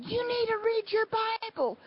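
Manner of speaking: high, insistent mock yell; retold yelling. Woman who kept on and on at me, high mock yell. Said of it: "she started screaming and yelling at me".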